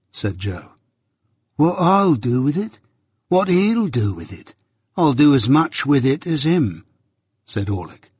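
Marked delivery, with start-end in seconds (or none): 1.6-6.8 higher, indignant retort; indignant journeyman. Acted. Journeyman demanding equal treatment from his master, indignant. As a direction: throw the questions back, pitched up. Orlick argues back at Joe.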